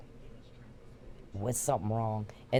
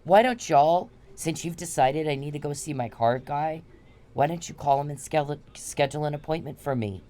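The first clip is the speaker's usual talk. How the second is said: confrontational. Retold or imitated. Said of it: "I get all confrontational with it".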